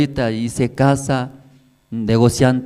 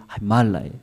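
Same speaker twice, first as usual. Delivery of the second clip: lamenting woman; 5 semitones higher, 6 dB louder than usual. Acted. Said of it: "escuchando de esa mujer".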